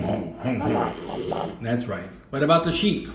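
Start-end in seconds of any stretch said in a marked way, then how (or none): 0.0-1.6 Thai dog bark. Shown as a demonstration. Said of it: "in Thailand they say hong".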